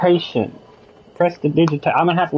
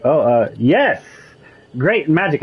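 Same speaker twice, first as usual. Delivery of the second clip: sarcastic. Shown as a demonstration. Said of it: "is this sarcasm".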